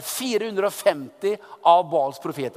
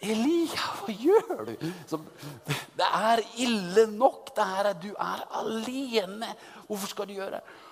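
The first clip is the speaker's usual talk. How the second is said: worried onlooker; 4 semitones higher, 3 dB quieter than usual. Pretend. Onlookers question Elijah.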